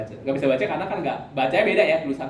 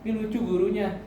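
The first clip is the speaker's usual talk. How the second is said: put-on child telling grandma; 7 semitones higher than usual. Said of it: "ngomong sama mama saya".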